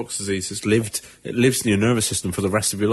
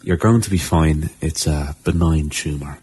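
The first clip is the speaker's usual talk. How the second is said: put-on Irish accent; 6 semitones lower than usual. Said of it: "Can you say it in a more Irish accent?".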